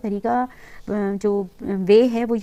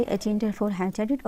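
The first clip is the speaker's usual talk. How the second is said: slow, letter by letter dictation; spelled-out shortcut; 3 dB quieter, much slower than usual. Shown as a demonstration. Teacher dictating a shortcut to students, slow and spelled out. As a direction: spell the command out slowly for students. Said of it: "dictating a keyboard shortcut".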